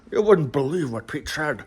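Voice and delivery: lightly imitated Sean Connery accent; a hint of mock Sean Connery; Sean Connery impression. Fellow joker reporting gossip, light Sean Connery imitation. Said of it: "voices in the Sean Connery accent".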